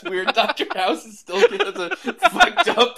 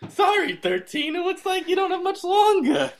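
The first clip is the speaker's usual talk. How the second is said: House impression; 2 semitones higher than usual. Co-host as Doctor House to Thirteen, mock grave. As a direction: deliver the verdict with mock gravity. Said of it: "I've been doing it too".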